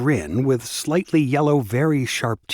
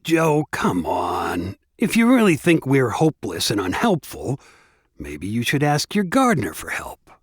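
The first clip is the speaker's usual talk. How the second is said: condescending. Acted. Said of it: "spoke condescendingly".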